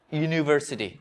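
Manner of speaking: ইউনিভার্সিটি opening on a clear "yoo"; ইউনিভার্সিটি said as "yoo-ni-var-si-ti"; initial Y sound. Shown as a demonstration. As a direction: show the Y sound that starts ইউনিভার্সিটি. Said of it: "ওয়াই সাউন্ডটা আগে চলে আসে".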